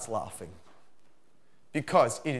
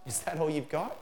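taunting; 3 semitones higher than usual. Retold or imitated. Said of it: "they're like".

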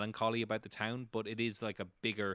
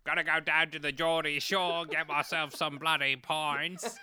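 hammed-up Geordie accent for a laugh; mock Geordie accent; 6 semitones higher, 4 dB louder than usual. GM teasing the player's Patrick Stewart with a hammed-up Geordie accent. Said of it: "he's Australian as well".

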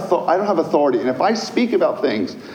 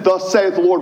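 higher, louder proclamation; proclaiming; 7 semitones higher, 4 dB louder than usual. Shown as a demonstration. Pastor to a penitent, proclaiming boldly. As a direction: declare it boldly. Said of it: "I need to be able to say".

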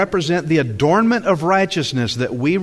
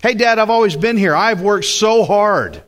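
higher-pitched boast to Dad; boasting older son; 5 semitones higher than usual. Acted. Older son claiming credit from his father, boasting. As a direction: brag about your hard work, pitched up. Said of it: "the older son is boasting".

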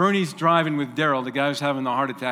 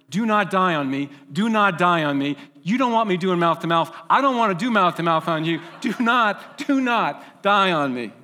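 higher and louder, urgently begging him to hang on; frantic pleading shout; 4 semitones higher, 6 dB louder than usual. Retold or imitated. Bernie shouting at dying Darrell in the speeding truck, frantic pleading yell. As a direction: yell it like you're racing a dying friend to town.

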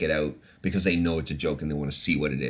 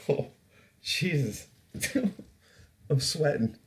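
laughing; 8 semitones higher, 4 dB quieter than usual. Real, not acted. Laughing at his own joke.

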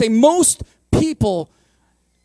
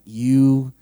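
accusing; 9 semitones lower, 4 dB louder, slower than usual. Retold or imitated. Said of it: "You're like".

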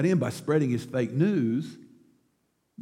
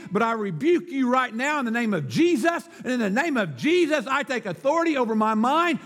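commanding sermon rebuke, building to a higher finish; rebuking the devil; 8 semitones higher than usual. Shown as a demonstration. Preacher showing listeners how to rebuke the devil, commanding. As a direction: order the devil out with rising force. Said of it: "you need to rebuke the devil and say".

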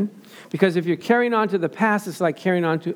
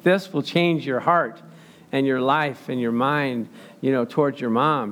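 gentle counsel; 4 semitones lower, slower than usual. Retold or imitated. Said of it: "I go".

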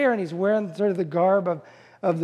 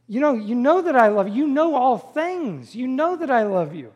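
higher-pitched, insistent retold plea; grieved pleading; 5 semitones higher than usual. Peter answering the Lord the third time, grieved pleading. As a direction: act out a hurt, earnest protest. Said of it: "he's grieved".

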